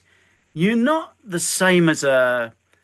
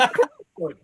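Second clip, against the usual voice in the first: eager yes; 9 semitones higher than usual. Retold or imitated. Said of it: "I went".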